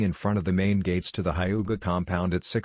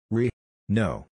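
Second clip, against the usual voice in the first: voice cracking screech; 2 semitones higher than usual. A narrator's reading. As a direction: voice breaking on a shrill no. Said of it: "Neji screeched".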